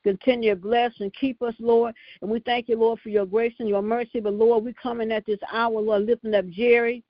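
prayer cadence, calling on Lord; fervent prayer. Acted. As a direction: pray it out with fervor. Leads the prayer line.

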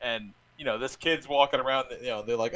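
ordinary delivery

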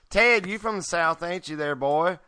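lightly played Southern accent; a touch of Southern good old boy. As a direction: put on a folksy Southern accent. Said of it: "Matt's got the best Southern accent".

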